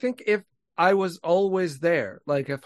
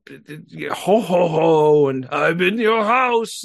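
lightly voiced Santa Claus; 6 dB louder, much slower than usual.

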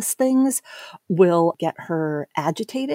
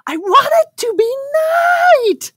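put-on very high, loud screech of a tantruming child; imitated full-blown child scream; 6 dB louder than usual. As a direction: mimic the tantrum at its peak, screeching. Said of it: "screaming in my face".

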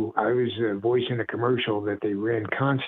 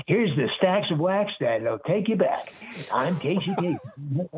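Casey Kasem impression; 5 semitones higher than usual. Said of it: "say something like".

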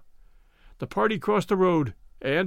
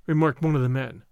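plain reading voice

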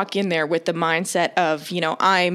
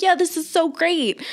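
high-pitched eager gush; retold excitement; 8 semitones higher than usual. Client agreeing with masseuse, retold high excited gush. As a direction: replay gushing agreement in a high voice. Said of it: "we're both now very excited".

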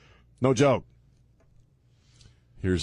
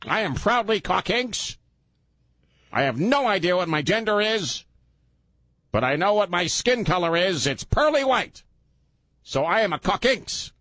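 high, gee-whiz mock white guy; 4 semitones higher than usual. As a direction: put on a higher, squeaky-clean white-guy act. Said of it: "let me use my white guy voice".

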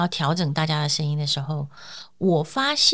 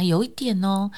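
gentle; 3 dB quieter, slower than usual. Shown as a demonstration. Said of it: "我跟他讲".

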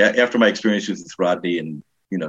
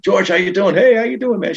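high, loud hail to a celebrity; excited fan greeting; 12 semitones higher, 5 dB louder than usual. Retold or imitated. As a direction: imitate eager fans calling out. Imitating fans greeting George at airport.

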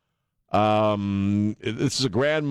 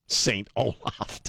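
slow, drawn-out mock-solemn "Saint Olaf"; mock grand title; 3 dB quieter, much slower than usual. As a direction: stretch out "Saint Olaf" like a grand proclamation that falls flat. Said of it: "Boy, what a party".

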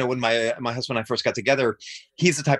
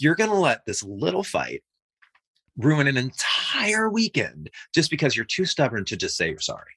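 raised, incredulous pitch; retold exasperated complaint; exasperated protest; 6 semitones higher than usual. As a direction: argue it in mock exasperation, stretching the key words. Acted quarrel over cancelled trip.

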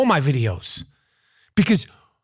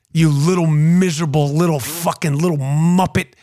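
low, drawn-together string of scornful jabs; low-pitched contemptuous taunt; taunting insult; 6 semitones lower than usual. Real, not acted. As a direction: needle him with each insult, pitched low. Taunting Dolan with his nickname.

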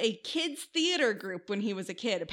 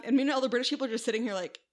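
ordinary talk, nothing marked

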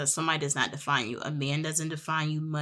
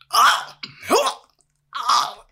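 high breathy gasping oh; shocked gasps; 6 semitones higher, 8 dB louder, much slower than usual. Retold or imitated. In bed beside him, high horrified gasps. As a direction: gasp in horror. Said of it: "and I am like".

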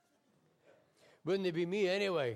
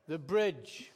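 put-on a light posh Scottish or English accent; 4 dB louder than usual. Passenger naming her destination in a lightly posh Scottish accent. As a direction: say it like a posh Edinburgh lady, clipped to one word. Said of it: "in this accent that's either posh Scottish or English".

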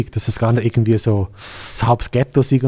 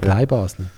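KLEIN Basel, stressed on Klein; stress on first syllable; 3 semitones lower, slower than usual. Shown as a demonstration. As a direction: put the weight on the first word of "Klein Basel". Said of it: "Das ist Betonung auf erstes Silber".

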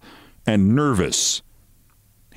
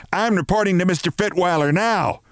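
higher, indignant mock shout; 9 semitones higher than usual. A narrator's reading. Mrs Barrows storming into his office, mock shout. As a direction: fling it at him in outrage. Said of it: "she shouted".

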